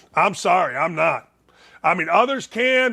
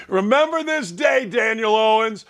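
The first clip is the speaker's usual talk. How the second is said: laughing. Real, not acted. Host taunting caller Daniel Owens, laughing. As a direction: laugh it out as a gleeful warning.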